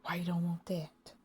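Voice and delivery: hushed, breathy whisper of a question. Retold or imitated. A baffled whisper to church people. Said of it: "And I'm like".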